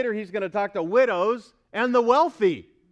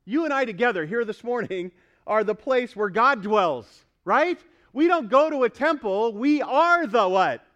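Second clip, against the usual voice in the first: raised, punchy preacher's voice; emphatic preaching; 4 semitones higher, 5 dB louder than usual. Real, not acted. Pastor prompting congregation about being God's temple, emphatic preaching. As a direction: press the congregation for the answer, louder.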